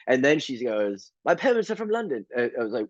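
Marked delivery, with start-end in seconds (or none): 1.2-2.3 put-on high, proper English-accented voice; prim British cashier. Mimicking the cashier repeating the same answer. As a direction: repeat it stiffly and primly. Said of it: "super proper".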